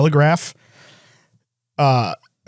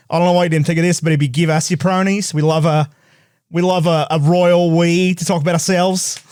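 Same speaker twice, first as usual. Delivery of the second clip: mock Australian accent. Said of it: "another Australian person responded".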